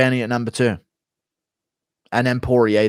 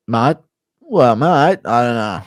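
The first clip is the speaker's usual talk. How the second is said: standard Australian accent; broad "mate" in an Aussie accent; 5 dB louder, slower than usual. Shown as a demonstration. Showing a standard Aussie accent, Australian vowels. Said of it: "standard Aussie accent".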